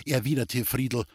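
plain reading voice

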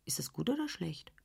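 leise geflüsterte Frage an sich selbst; flüstere die bange Frage; geflüstert. Acted. Ängstliche innere Frage. (Else fragt sich flüsternd)

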